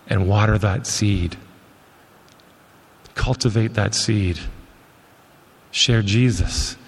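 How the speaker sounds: slow, low, measured sermon close; solemn preaching appeal. Real, not acted. Preacher urging ministry workers to go water the seed, solemn appeal. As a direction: let each phrase settle, pitch sinking, long pauses.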